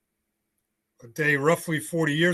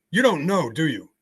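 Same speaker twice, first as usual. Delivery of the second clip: mildly confrontational retold challenge; retold belligerence; 2 semitones higher than usual. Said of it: "she's a little belligerent".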